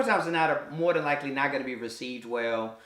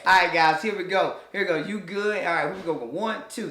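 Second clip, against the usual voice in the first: dance instructor. Retold or imitated. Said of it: "teach the hip hop dance".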